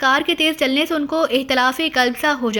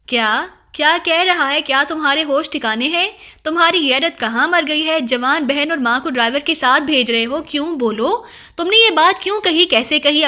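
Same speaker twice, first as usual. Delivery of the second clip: furious mother demanding answers; a heated, indignant tirade; outraged scolding. Acted. Mother berating her son for sending them with the driver, angry. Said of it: "اماں بی کا پارا انتہائی درجے پر".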